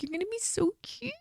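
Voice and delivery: high breathy whisper, gushing; soft whisper. Retold or imitated. Telling her husband he'll be a cute dad, in a soft whisper. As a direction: whisper it like a tender secret.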